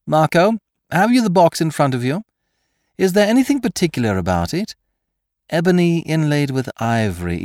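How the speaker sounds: brisk thief checking on his accomplice; Lupin on the telephone. A narrator's reading. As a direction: fire eager questions down the line.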